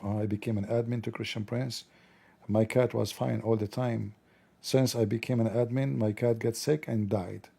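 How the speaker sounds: lightly voiced gloomy cat owner; admin's musing. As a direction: muse to yourself in a hush. Imagined thoughts of admin.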